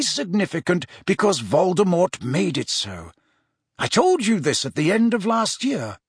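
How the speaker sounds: lightly voiced mentor, deliberate and emphatic; measured insistence from a lightly acted old wizard; Dumbledore. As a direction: explain it earnestly to the pupil. Voices Dumbledore explaining prophecy.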